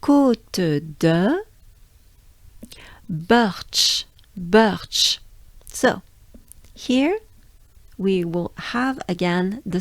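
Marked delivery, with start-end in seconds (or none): 0.0-5.2 Birch with lips and jaw pushed forward. Shown as a demonstration. Teacher showing jaw movement on Birch. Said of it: "forward movement of your jaws".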